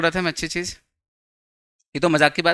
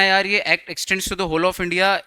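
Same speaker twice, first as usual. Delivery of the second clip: slow quoting; much slower than usual. Retold or imitated. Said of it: "कहना".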